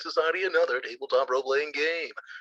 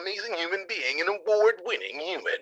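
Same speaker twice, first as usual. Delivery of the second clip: hype man ad; 3 semitones higher than usual. Acted. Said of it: "be my hype man".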